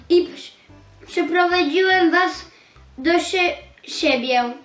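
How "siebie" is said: ordinary delivery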